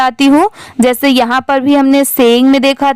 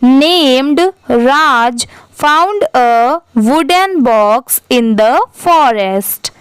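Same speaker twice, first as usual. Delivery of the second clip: slow, deliberate read-aloud for a class; teacher reading very slowly, one word at a time; slow dictation reading; much slower than usual. Shown as a demonstration. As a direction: read each word very slowly for pupils to repeat. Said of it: "आप भी मेरे बाद repeat करिए".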